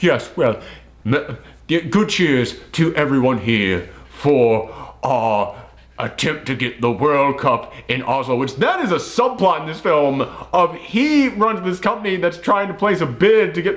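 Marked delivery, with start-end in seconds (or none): 0.0-8.4 overblown, pompous, exaggerated put-on British accent. Imitating someone's most pompous delivery in a film: mock-pompous British accent. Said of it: "It sounds like when I try and do a British accent".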